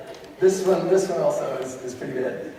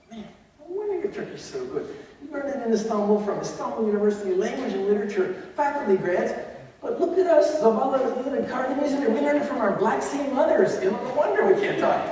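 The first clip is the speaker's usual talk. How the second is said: self-mocking boss; 6 semitones higher than usual. Boss teasing about own accent.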